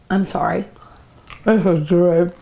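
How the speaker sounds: talking while chewing; words round a bite of food; mouth full. Real, not acted. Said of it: "I'm not supposed to talk with my mouth full".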